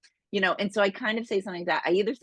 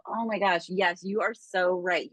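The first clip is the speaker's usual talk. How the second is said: agreeable reply. Shown as a demonstration. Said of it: "What I do is I just, I simply go".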